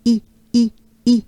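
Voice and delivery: "I" as short "ee" with a big smile; banana-smile the French "I"; smiling French i. Shown as a demonstration. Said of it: "banana smile".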